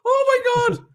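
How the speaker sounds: very high, laughing "Oh my God."; laughing shock. Retold or imitated. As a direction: imitate her laughing disbelief. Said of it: "She literally looks at her laugh".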